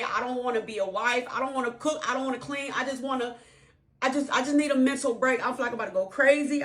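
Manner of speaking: wife begging for a break, mildly tearful and high; imitating crying wife. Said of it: "And she started crying".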